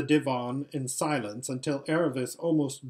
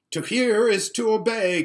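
loud, high eager vow; eager cry; 9 semitones higher, 7 dB louder than usual. Acted. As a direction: cry it out eagerly to your father. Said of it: "cried Rabadash".

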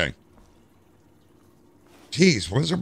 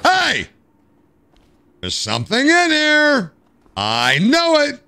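excited discovery; 14 semitones higher, slower than usual. Real, not acted. Finding contraband.

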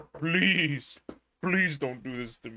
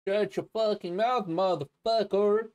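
mock rage; 6 semitones higher than usual. Streamer fake-threatens his chat with hammed-up anger. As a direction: snarl it in fake fury.

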